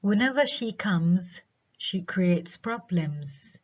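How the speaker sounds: slow, "comes" left up, "problems" dropping; non-terminal rise. Shown as a demonstration. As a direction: hang on "comes", close on "problems". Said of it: "الجزء الأول من الجمل".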